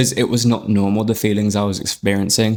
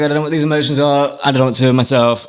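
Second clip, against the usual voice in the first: retold distress; 5 semitones higher, faster than usual. Retold crying voice note to Emma.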